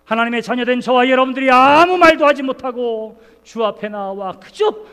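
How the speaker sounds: loud, slow pleading sermon; impassioned preaching. Acted. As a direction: lift it to the whole church. Climax of sermon appeal.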